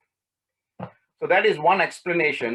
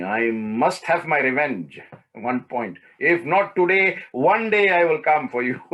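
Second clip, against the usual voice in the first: slow, louder, menacing vow; mock vengeful threat; 5 dB louder, slower than usual. Imagined wronged prince vowing revenge on stepmother, slow and menacing. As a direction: play the grudge-holder swearing revenge.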